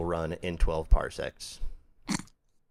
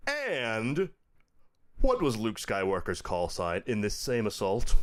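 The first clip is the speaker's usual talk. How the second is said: upbeat announcer reading the question; game show host voice. Acted. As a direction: ask it like a TV quiz host. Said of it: "announcer, like a game show host voice".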